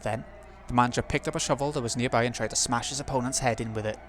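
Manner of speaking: story narration. A narrator's reading. Narrator reads game text.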